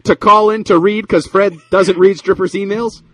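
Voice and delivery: high, loud, slow disbelief; incredulous. Real, not acted. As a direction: spell out the absurdity slowly. Host incredulous about stripper emails.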